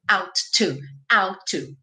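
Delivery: OUT TO joined with one T; one shared T in "out to"; single linked T. Shown as a demonstration. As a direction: run "out to" together on one T. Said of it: "um T só".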